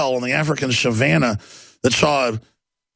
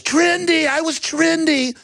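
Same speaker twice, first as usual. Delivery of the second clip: very high, drawn-out squeal; high-pitched mock death wail; dying gazelle; 14 semitones higher, slower than usual. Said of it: "the gazelle goes".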